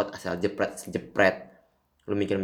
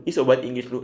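mocking jab at English speakers; louder mocking taunt; 3 semitones higher, 4 dB louder than usual. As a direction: taunt pushed up louder, mock sneer. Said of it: "persetan sama orang-orang".

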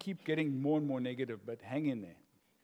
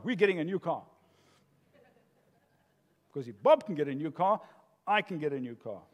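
controller voice; 2 semitones lower than usual. Acted. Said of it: "the controller voice goes inside and tells the wife".

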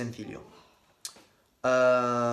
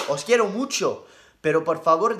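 excited; 2 semitones higher, 6 dB louder than usual. Real, not acted. Gushing to his viewers.

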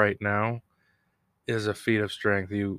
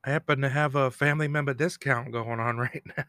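higher, louder mock come-on; propositioning woman of the night; 5 semitones higher, 3 dB louder than usual. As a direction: play a hammed-up streetwalker's pitch. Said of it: "a woman of the night comes by and propositions him".

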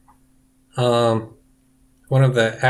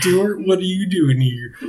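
Stuart's mom, lightly voiced; 5 semitones higher than usual.

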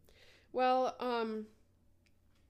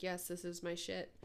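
sassy witchy; 5 dB quieter than usual. Retold or imitated. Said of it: "feeling kinda sassy and witchy".

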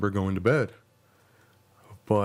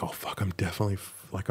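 whispering; 5 dB quieter than usual. Retold or imitated. Panicked inner thought, caught by cop.

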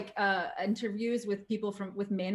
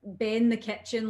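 Aberdonian dialect, a little louder; Aberdeenshire brogue; 2 semitones higher, 5 dB louder than usual. Shown as a demonstration. Quoting Aberdeenshire locals to the host, broad local brogue. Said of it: "they say things like".

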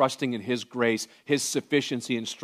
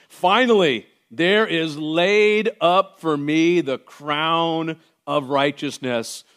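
voicing Paul; 3 semitones higher, 3 dB louder, much slower than usual. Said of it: "He's like".

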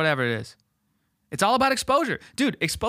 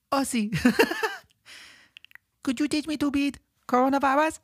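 put-on high little child voice broken by laughter; laughing toddler voice; 9 semitones higher than usual. Small child asking Ozzy again, laughing toddler voice. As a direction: laugh through a tiny kid's plea. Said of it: "that's how I talk when I'm two or three".

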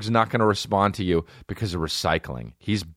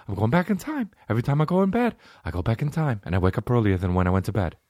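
Mark Wahlberg impression; faster than usual. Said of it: "Hey, Mark Wahlberg".

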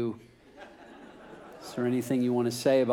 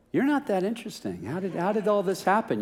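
higher-pitched puzzled onlooker; mildly baffled questioning; 6 semitones higher than usual. Acted. People close up questioning the preacher's success, mildly baffled. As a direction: question it in mild disbelief.

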